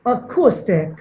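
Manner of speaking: "অ্যাকুস্টিক" said clearly for repeating, long "oo"; pronunciation model. Shown as a demonstration. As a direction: model "অ্যাকুস্টিক" for a pupil to copy. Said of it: "আমার সাথে উচ্চারণ করো".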